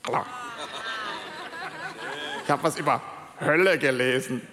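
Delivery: low, muffled caricature of a bored Christian; distorted mock Christian. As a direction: play a hollow, distorted believer mocking himself. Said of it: "dann wird's so irgendwie verzerrt".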